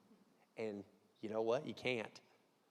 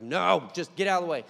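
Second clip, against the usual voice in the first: lightly raised call at the dog; mild mock yell; 4 semitones higher, 8 dB louder than usual. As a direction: shout at the dog half-heartedly. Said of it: "I'm always yelling at him".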